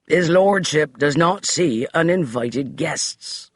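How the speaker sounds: put-on slow, mild rasp of an old servant; lightly voiced grim butler. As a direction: rasp it out coldly. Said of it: "Finch rasped".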